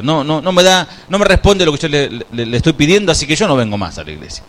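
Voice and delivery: complaining churchgoer. Retold or imitated. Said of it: "decía".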